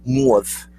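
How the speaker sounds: "mauve" with an AW vowel; New York mauve. Shown as a demonstration. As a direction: say MAUVE as "mawve". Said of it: "did they all come from New York".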